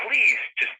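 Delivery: mildly pleading retold plea. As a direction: lightly act out begging someone to give in. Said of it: "He says it kind of in a pleading".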